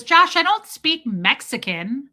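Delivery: imitating her, high, loud and slow; whiny Clueless girl. Host quoting Clueless girl to her brother, mock protest. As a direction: protest to Josh with a rising end. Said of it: "She goes".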